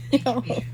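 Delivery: soft, brief laugh. Real, not acted. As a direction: let a quiet chuckle slip out. Laughs while repeating her question.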